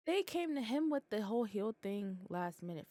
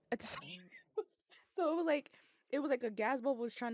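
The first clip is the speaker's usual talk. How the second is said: laughing with a cry in the voice; 5 semitones higher than usual. Real, not acted. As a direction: laugh it out in pain. Laughing through pain.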